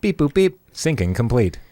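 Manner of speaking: high robotic beeps. Retold or imitated. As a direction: sound like a machine finishing its task. Body voiced as a machine.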